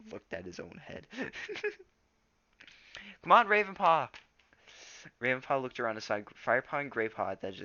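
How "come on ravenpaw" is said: high, loud urging shout; eager shout. A narrator's reading. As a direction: cheer him on to tell it. Crowd urging storyteller.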